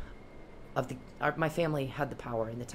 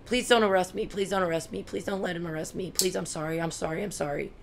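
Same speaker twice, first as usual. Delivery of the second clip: crying plea; 7 semitones higher than usual. Retold or imitated. Imitating a bullied boy begging the cop, high tearful plea. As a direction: plead with him not to arrest you, near tears. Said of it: "That kid started crying".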